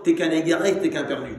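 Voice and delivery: mock dismissive verdict on a sinner; judgmental condemnation. Believers telling a sinner he is lost, mock judgmental. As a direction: imitate someone writing a brother off. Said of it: "on sort le astaghfirullah du genre".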